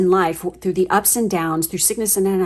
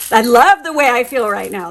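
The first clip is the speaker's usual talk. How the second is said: excited; 4 semitones higher, 7 dB louder than usual. Real, not acted. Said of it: "I'm getting super excited".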